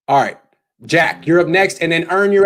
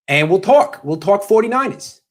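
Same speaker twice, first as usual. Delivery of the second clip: New York accent; 5 semitones higher than usual. Shown as a demonstration. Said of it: "is that how New Yorkers say forty-niners".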